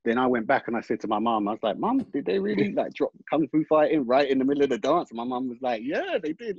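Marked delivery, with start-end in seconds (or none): 1.8-5.1 high, eager disbelieving question to mum; surprised question. Retold or imitated. Quoting herself asking her mum. 5.8-6.6 high, light voice of her mum; mum's voice. Retold or imitated.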